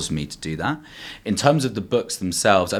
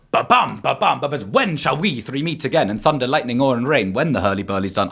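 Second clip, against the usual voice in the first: higher, pounding ba-bum beat into the verse; dramatic witch opening; 4 semitones higher than usual. Acted. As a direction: boom it out like the stage opening. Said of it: "something comes on where it goes".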